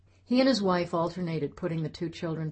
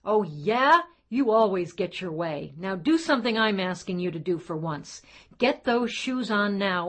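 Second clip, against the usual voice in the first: father yelling; 3 semitones higher, 5 dB louder than usual. Acted. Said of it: "Robert yelled in that voice".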